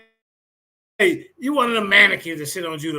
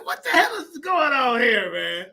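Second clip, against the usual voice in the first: laughing disbelief; 4 semitones higher, slower than usual. Retold or imitated.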